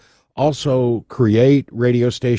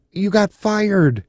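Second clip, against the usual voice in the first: surprised clerk; 11 semitones higher, slower than usual. Retold or imitated. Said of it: "she goes".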